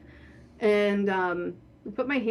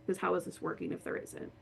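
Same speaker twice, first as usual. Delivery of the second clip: whispered, much softer; awed whisper; 8 dB quieter than usual. Retold or imitated. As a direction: breathe it out in quiet wonder. Awed realization after board moved.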